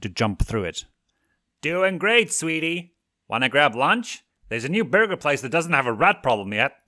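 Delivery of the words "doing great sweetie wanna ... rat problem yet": high, excited father voice; father overjoyed his daughter called him Dad; manic elated dad. A narrator's reading. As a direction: gush with manic delight.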